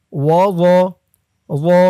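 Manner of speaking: second ওয়া with a soft, heavy th-like zo; soft articulation. Shown as a demonstration. Teacher showing learners the soft letter in ওয়া. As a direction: keep the consonant of ওয়া soft, tongue at the teeth. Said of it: "একবার নরম করে বলতে হবে".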